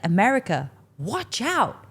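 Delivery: a hint of a cocky lad shouting, slowed; half-hearted imitation of a cheeky lad yelling; mock shout. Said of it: "he shouts to his best friend".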